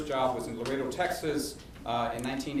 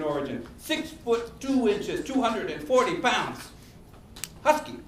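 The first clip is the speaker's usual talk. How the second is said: higher-pitched, theatrical monologue with deliberate pauses; Raul H. Castro; 7 semitones higher than usual. Acted. Playwright performing a former governor's life story, theatrical monologue. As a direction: declaim a life story phrase by phrase.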